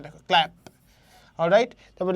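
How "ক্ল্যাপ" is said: firm, isolated ক্ল্যাপ; stressed CLAP. Shown as a demonstration. Teacher telling students to look, ক্ল্যাপ firmly stressed. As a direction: punch ক্ল্যাপ as one beat. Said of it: "ক্ল্যাপকে stress করা হচ্ছে".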